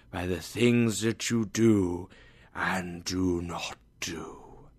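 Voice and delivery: hushed phantom confessing, flaring up on "You, too"; ghostly whisper. Acted.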